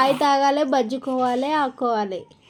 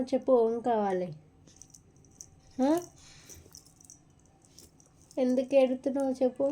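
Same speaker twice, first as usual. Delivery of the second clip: tender coaxing; 8 dB quieter than usual. Real, not acted. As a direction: gently coax a crying little one. Soothing her crying baby. (ఏడుస్తున్న పాపను మృదువుగా బుజ్జగిస్తూ)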